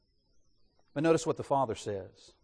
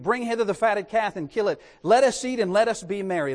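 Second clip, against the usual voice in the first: rejoicing father; 3 semitones higher, 3 dB louder than usual. Acted. Preacher voices the rejoicing father.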